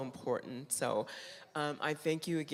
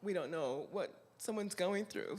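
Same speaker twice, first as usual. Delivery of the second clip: softer, emotional repeat; choked up; 3 semitones higher, 5 dB quieter than usual. Real, not acted. Speaker moved by the sisterhood message, choked up. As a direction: let the feeling catch in the voice. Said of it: "I don't know why I'm getting emotional".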